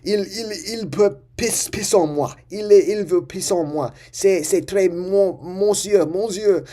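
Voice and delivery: high, loud mock panic in halting French; retold screaming in French. Kid screaming in French to the homeroom teacher, high mock yell. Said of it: "So I start screaming".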